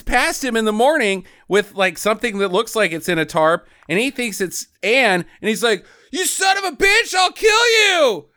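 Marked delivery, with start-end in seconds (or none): 6.1-8.3 high, loud shouted threat; mock furious shout. Retelling the movie, shouting the father's threat. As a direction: scream the threat at the killer.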